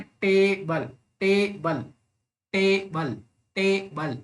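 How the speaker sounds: टेबल split in two, TAY held, bul falling; stress on first syllable. Shown as a demonstration. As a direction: lean on टे of टेबल, let बल drop. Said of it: "पहला syllable हमेशा stressed होना चाहिए".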